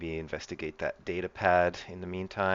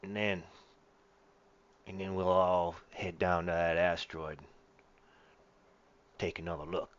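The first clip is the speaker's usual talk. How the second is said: lightly voiced gangster; a hint of gangster in the voice. Crook laying out terms for boarding the ship, lightly voiced gangster. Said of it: "like a gangster or something".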